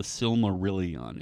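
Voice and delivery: Silmarillion ending in "-on" like Necronomicon; correct pronunciation. Shown as a demonstration. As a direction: Silmarillion with a separate "ee-on" at the end. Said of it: "like when you say Necronomicon".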